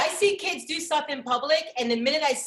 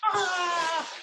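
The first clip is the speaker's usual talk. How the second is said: mock tantrum yell; 5 semitones higher than usual. Child's tantrum retold.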